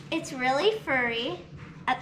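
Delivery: hiccuping between words; with hiccups. Real, not acted. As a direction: talk through the hiccups. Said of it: "Sorry, I have the hiccups today".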